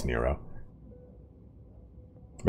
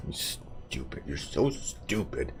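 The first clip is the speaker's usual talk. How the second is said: mock scolding pet; 11 dB quieter, slower than usual. Teasing his in-game dog.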